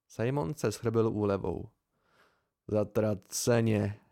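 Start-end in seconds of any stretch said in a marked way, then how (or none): 2.7-4.0 slow relieved blurt; blurted curse. Acted. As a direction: let it burst out in relief. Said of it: "vyhrkl a rozesmál se". (vyhrknuté úlevou)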